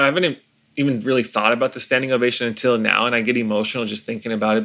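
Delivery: normal talking voice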